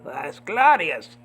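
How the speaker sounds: high, drawn-out words through a laugh. Real, not acted. Laughs after his sung tune.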